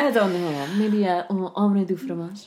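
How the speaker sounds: hammed-up French mumbling; mock French accent. Mimicking the co-host's French, teasing French accent. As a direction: imitate a French accent, laughing. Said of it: "with a French accent".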